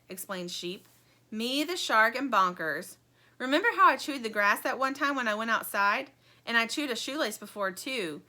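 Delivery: Sheep's eager chatter. Acted. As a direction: explain brightly. Sheep explaining.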